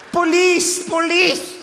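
high, frantic calls of a scandalized lady; posh lady crying police. Retold or imitated. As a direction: call for help like a fussy rich lady. (señora pituca chillando aguda pidiendo a la policía)

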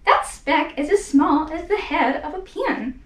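a hint of a sneering kangaroo, slow, with a laugh; slow mocking scoff, laughing at the idea; lightly voiced sour kangaroo. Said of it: "'Twas a sour kangaroo".

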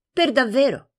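"Per davvero." stated, not asked; firm confirmation. Acted.

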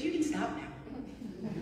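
slow, through a laugh; quoting her small son, amused. Retold or imitated. Small son to his crying mom, said laughing.

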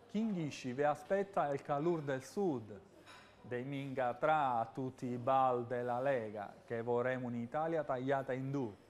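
Sicilian speaking in Milanese dialect; lightly put-on Milanese accent. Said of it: "nel vostro dialetto".

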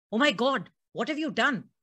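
stunned exclamation; shocked husband. Acted. Husband sees cut wrists.

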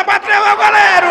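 excited commentary. Real, not acted. Goal chance, rising commentary.

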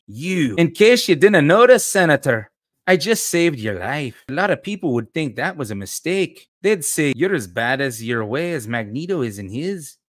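lightly put-on Scottish lilt for a reproachful rescuer; Scottish accent. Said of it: "How's my, uh, uh, Scottish accent".

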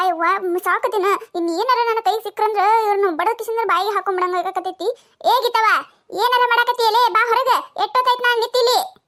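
an old woman fed up with waiting, lightly voiced; lightly played impatient old lady; grumbling old woman. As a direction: complain like a tired old village woman.

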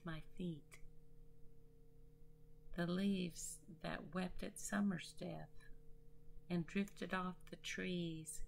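measured poem reading with deliberate pauses; poetry recital. Acted. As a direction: recite it line by line, letting each phrase rest. Recites own nature poem.

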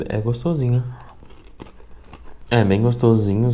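talking with mouth partly full; eating while speaking; chewing a cracker. Real, not acted. Seen 0: puts cracker in mouth at 0.5s, then chews while speaking.

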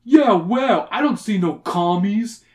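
loud put-on heckler voice; big scornful heckle; jeering wrestler. A narrator's reading. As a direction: jeer it like a wrestler. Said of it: "jeered a guy who looked like a wrestler".

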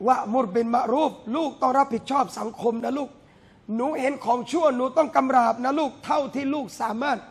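gentle parent coaxing a little one; a hint of a tender father guiding his child. Parent voiced advising a child.

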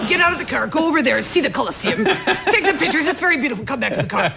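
a hint of a bossy Italian driver, laughing; macho driver voice. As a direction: lightly play the macho driver. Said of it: "he said".

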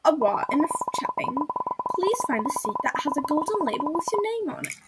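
lightly put-on Australian accent. Crew member sends passengers to seats, Australian accent. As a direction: crew instruction with a hint of Australian. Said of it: "gonna give her an Australia as-, accent".

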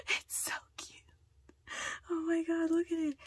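high, squeaky delight; gushing over cuteness. Real, not acted. Gushing over finished stand.

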